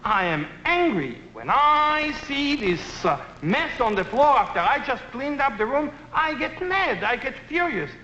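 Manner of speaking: demonstrating an angry I-message, pitched high; mock anger demo. Shown as a demonstration. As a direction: act out telling the child you're mad. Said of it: "I start saying with the word "I".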